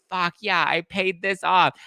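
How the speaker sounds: high, triumphant imagined cheer; mock triumph. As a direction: celebrate like you just paid it off. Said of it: "being like".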